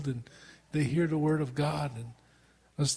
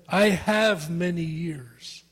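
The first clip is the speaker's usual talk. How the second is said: arrogant boast. Retold or imitated. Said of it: "this man in his arrogance said".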